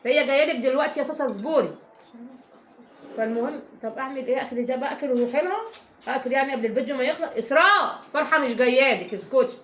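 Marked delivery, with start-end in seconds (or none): 0.0-1.7 raised voice telling her to hold on; calling out. Real, not acted. Calls out again to daughter. 7.4-9.6 scolding call. Real, not acted. Scolds the kids off-camera.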